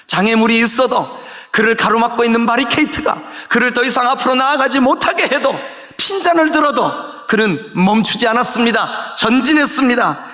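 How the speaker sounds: steady, driving sermon proclamation; fervent pulpit delivery; emphatic preaching. Real, not acted. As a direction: press each phrase forward with conviction. Preaching at full force.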